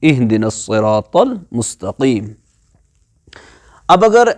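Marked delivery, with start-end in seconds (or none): 0.0-2.2 اہدنا with a light h, no throat squeeze; simple unstressed h. Shown as a demonstration. Teacher shows reading اہدنا simply, no stress on h. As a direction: read اہدنا straight, h left easy. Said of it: "سیدھا simply پڑھنا ہے".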